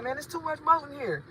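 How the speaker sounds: mock country accent dropping the s; nephew's Southern way. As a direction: imitate the nephew's Southern speech. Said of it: "He be like".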